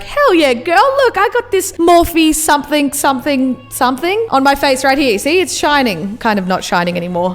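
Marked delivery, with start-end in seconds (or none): 0.0-6.2 lightly voiced excited show-off; mock hyped girlfriend. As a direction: hype it up to a friend. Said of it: "I'm gonna be like".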